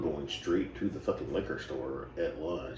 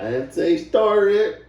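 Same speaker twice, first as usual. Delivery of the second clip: retold retort; 14 dB louder, slower than usual. Retold argument with Angie.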